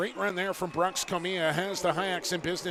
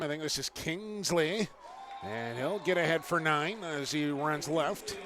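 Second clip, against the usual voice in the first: stadium PA announcer. Pretend. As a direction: boom it out like the PA guy. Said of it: "my best Hyaks P A announcer impression".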